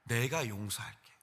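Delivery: Jesus gently forgiving the sinner, soft and slow; Jesus speaking gently. Retold or imitated. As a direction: ease into it tenderly, slow and quiet. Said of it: "예수의 음성이 들리면".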